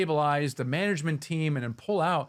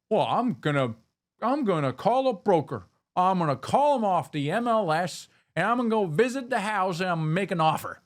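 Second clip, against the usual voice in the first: lightly put-on Southern accent, a little higher; 3 semitones higher than usual. Host acting out his old house-hunting approach, light Southern accent. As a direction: play the eager house buyer with a hint of a Southern accent. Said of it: "you approach them with a Southern accent".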